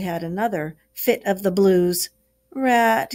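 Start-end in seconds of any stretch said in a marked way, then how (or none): 2.5-3.1 moaning. Acted. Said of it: "he moaned".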